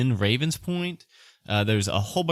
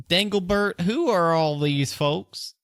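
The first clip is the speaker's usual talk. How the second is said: put-on higher, slowed old dwarf voice; elderly dwarf; 7 semitones higher, slower than usual. Game master as dwarf asking about visitors, high elderly voice. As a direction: query it as an old dwarf woman. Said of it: "an elderly looking dwarf".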